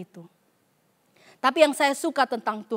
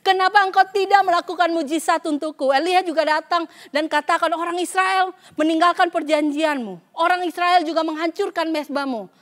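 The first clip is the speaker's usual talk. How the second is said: whining Elijah; 4 semitones higher, 3 dB louder than usual. Retold or imitated. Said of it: "kedengarannya seperti sedang merengek-rengek".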